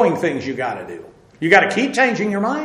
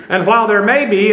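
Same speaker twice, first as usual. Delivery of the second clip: "may be" said with a light laugh and extra weight; stress on may be; 3 dB louder than usual. Shown as a demonstration. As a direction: lean on "may be", slightly louder. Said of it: "and I emphasize the word may be".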